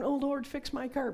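high, loud whiny prayer; mocking a lazy prayer; mock pleading prayer. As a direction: beg God to fix the car.

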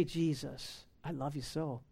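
soft, low, hushed devotion; tender whispered prayer. Pretend. A believer with closed eyes prays to Jesus, hushed and tender. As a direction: breathe it to Jesus like a lover. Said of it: "You can close your eyes and say".

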